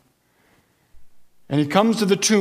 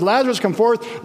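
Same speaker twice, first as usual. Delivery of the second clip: raised commanding call; powerful call; 6 semitones higher than usual. Acted. Jesus speaking Lazarus back to life, commanding. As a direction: sound the name like a command of power. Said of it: "there's such power in his voice".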